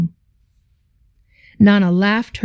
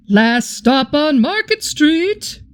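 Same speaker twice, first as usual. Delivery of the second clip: driver calling stop; 6 semitones higher, slower than usual. Acted. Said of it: "Mister Dennis called".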